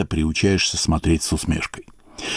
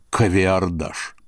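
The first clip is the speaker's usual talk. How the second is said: slow, deliberate; much slower than usual. Shown as a demonstration. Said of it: "и слово для этого придумал".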